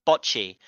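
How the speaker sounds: "Bocce" with short o and no separate T; smooth "Bocce" into BOTCH-ee; silent T. Shown as a demonstration. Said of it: "the T is silent".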